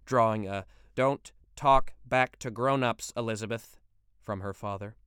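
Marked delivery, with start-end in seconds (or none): 0.9-3.8 stern scolding. Acted. Father scolding daughter.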